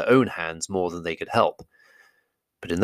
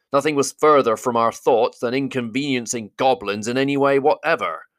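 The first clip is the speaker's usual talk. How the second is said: Thorin's voice; 5 semitones higher than usual. Acted. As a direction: greet him with stiff politeness. Thorin denies.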